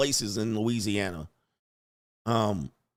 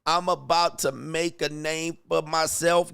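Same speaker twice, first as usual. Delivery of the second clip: a sudden high whoop, then a slow New Orleans drawl; a hammed-up New Orleans accent, whoop first; 5 semitones higher, 4 dB louder, slower than usual. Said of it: "I'm not sure about this accent".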